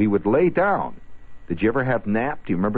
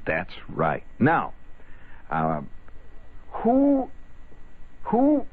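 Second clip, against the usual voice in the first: teacher voice; slower than usual. Retold or imitated. Teacher quizzing, drawn out.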